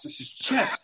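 whispered mock-dramatic line. Repeated, whispered.

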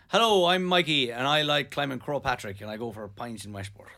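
put-on County Mayo accent, falling away. Shown as a demonstration. Starting Mikey off, mock Mayo accent. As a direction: introduce yourself in a Mayo accent. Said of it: "do your best Mayo accent".

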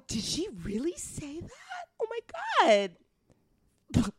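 put-on high, gushing white-girl voice with shocked gasps. Shown as a demonstration. Friend shows off her white voice on request, high and gushing white voice. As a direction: put on an exaggerated, astonished white voice. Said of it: "Can you do your white voice?".

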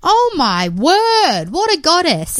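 awestruck gush. Real, not acted. Gushing over photo of hair.

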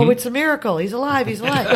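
high, hammed-up exclamation of wonder; mock amazement. Actress tempted to improvise as the dead man moves, mock amazed. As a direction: play at marvelling over a miracle. Voices her imagined improvised line.

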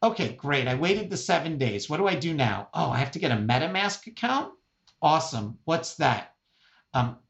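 lightly acted mom working through confusing steps; a hint of a bewildered old mother; mock questioning, step by step, as mom; imitating elderly mom. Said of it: "my eighty-year-old mom says the following".

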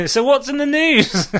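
laughing through a high, loud question; amused, laughter breaking into the words. Real, not acted. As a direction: giggle it out while asking. Laughing at friend's dull project.

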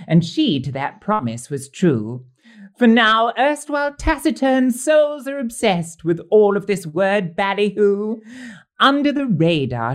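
theatrical rhyming verse recital; poem recital. Acted. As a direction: recite the couplets with a flourish. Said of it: "I've been busy authoring some rhyming couplets".

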